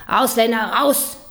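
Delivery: mock shout. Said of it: "schreien laut".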